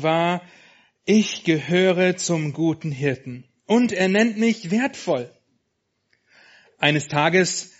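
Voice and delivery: put-on lively read-aloud to children; story narration. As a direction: tell it like a bedtime story. Reads children's book aloud.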